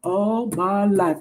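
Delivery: slow, drawn-out imitated line; Oprah. Asking whose line it was, slow light impression. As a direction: lightly mimic a weighty film delivery. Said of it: "I heard her voice".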